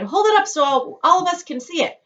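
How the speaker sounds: high, loud crowd voice; calling out. Acted. Crowd member calls for the ticket held high, loud. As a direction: beg them to lift it up.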